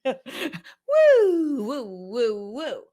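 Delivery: a high woo, then fading woos; playful woo woo. Pretend. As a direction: start high and loud, let the woos fade. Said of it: "Can I do that again?".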